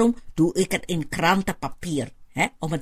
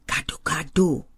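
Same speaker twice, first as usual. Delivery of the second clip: gefluisterd. Acted. Proud secret reveal of food.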